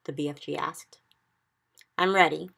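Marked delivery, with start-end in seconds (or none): 2.0-2.5 eager loud cry. Acted. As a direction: call it out excitedly. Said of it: "Sophie cried".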